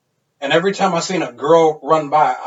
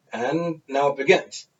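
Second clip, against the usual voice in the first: ominous announcer; 6 dB quieter, slower than usual. Retold or imitated. Friend's ominous line before drinking duel.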